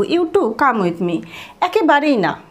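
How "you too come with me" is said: slow model phrase. Shown as a demonstration. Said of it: "just এইটুকু".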